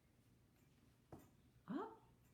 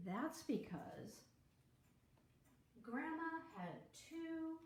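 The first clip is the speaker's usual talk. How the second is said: put-on story reading to children; 2 semitones lower than usual. A narrator's reading. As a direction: draw little listeners into the tale.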